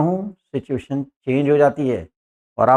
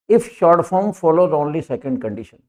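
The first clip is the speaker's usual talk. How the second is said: slow dictation; much slower than usual. Shown as a demonstration. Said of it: "reading the rule aloud".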